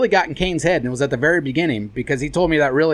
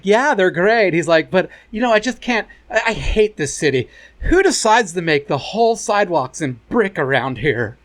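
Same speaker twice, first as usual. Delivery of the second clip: imitating the guy. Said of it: "I love Jason's gay accent".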